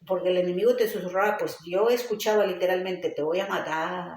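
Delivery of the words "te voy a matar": slow, softer, sinister murmur from the grave; lightly voiced menace from beyond the grave, slowed down. The enemy whispering a threat in hospital, a slow ghostly murmur. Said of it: "así como de ultratumba".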